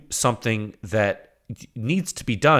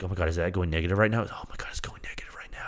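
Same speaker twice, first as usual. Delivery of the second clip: fast, breathless whisper of disbelief; awed whisper; 6 semitones lower, 9 dB quieter, much faster than usual. Retold or imitated. Testing team staring at the data in a fast awed whisper. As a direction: hush it out like you can't believe the screen.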